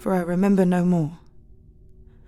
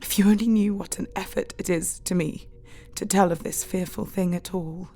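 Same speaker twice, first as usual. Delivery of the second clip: loving. Acted. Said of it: "said lovingly".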